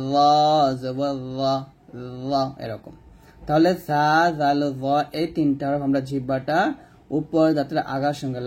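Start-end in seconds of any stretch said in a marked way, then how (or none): 0.1-2.3 ল said full and heavy, tongue tip at upper teeth; thickened articulation. Shown as a demonstration. Teacher showing students a heavy letter, ল thick and full. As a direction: make ল thick, held long then short. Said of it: "একটু মোটা করবেন".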